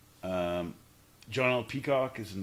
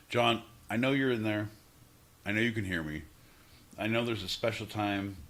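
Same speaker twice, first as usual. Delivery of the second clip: mock solemn intervention; 4 semitones lower, 4 dB quieter than usual. Mock solemn address to John.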